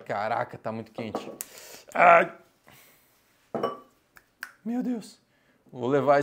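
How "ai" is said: loud pained yelp; sharp ouch. Real, not acted. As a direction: yelp as heat bites. Burning fingers on hot eggs.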